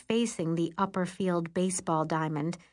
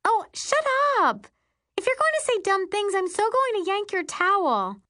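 much higher, louder, fast mock threat; threatening; 4 dB louder than usual. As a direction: snap a playful threat. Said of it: "Carly threatens".

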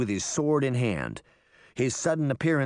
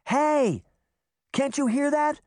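high-pitched interrupting call; urgent alert; 3 dB louder than usual. A narrator's reading. Daphne interrupting the quarrel at the sound, urgent high call. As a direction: break in urgently, voice leaping up.

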